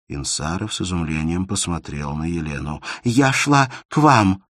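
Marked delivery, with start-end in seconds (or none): 3.0-4.4 higher, louder and slow confession; bold confession. Acted. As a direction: admit it outright. Elena confessing her love.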